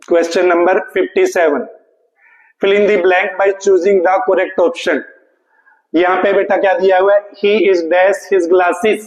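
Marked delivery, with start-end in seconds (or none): 2.6-5.0 reads the question slowly. Shown as a demonstration. 7.4-9.0 very slow, word by word; slow sentence read. Shown as a demonstration. Reading sentence slowly.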